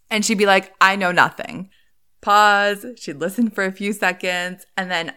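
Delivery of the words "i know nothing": mildly hammed-up animated protest; animated imitation. Quoting the woman's repeated reply on the phone, animated. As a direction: imitate someone insisting, with animated emphasis. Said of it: "in a very animated voice".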